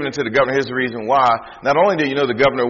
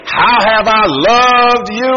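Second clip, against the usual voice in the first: mocking question; 9 semitones higher, 8 dB louder, much slower than usual. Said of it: "and you gonna say".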